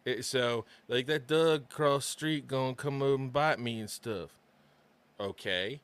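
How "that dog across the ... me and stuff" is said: Baltimore accent, lips barely moving; black Baltimore accent. Shown as a demonstration. Giving an example of local slurring, Baltimore accent. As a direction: run it together in Baltimore dialect. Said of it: "Doug is dog in Baltimore".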